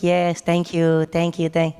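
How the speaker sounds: slow, tight politeness; strained polite host. Retold or imitated. House owner to intrusive tourists, slow strained thanks. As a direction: thank them through clenched patience. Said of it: "he's like".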